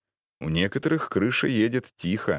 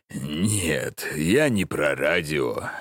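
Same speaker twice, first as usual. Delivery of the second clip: wistful sadness; much slower than usual. Acted. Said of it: "грустно улыбнулся старик".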